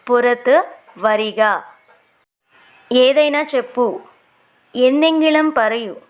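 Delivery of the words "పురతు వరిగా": slow, clear teacher repeat of పురతు వరిగా; slow model repeat. Shown as a demonstration. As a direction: say it slowly so learners can follow. (నెమ్మదిగా, స్పష్టంగా మళ్ళీ చెప్పడం)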